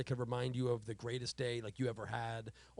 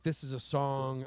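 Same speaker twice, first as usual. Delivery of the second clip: impression of a singer; slower than usual. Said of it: "I'm not gonna do the accent".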